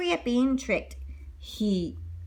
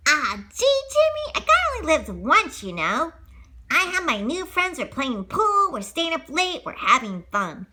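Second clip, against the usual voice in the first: put-on boyish Pinocchio; 5 semitones higher than usual.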